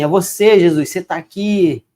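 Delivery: mildly acted happy disbelief; amazed recognition. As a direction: act out Mary realizing it is Jesus. Acts out Mary recognising Jesus.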